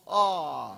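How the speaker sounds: mock belly laugh, falling off; imitated laugh. Party speaker mimics how a rival used to laugh, mocking laugh. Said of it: "Herod used to laugh".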